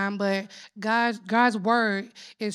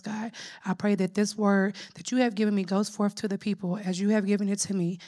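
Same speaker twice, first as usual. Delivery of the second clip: prayer. Acted. Opening prayer before sermon.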